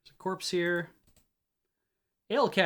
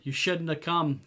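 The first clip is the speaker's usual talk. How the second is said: put-on slow drawl in a lightly done Hadati accent; heavy Hadati drawl. Scowling man to visitors at his door, slow Hadati drawl. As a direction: draw the words out in a Hadati accent. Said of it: "drawled the man with a heavy Hadati accent".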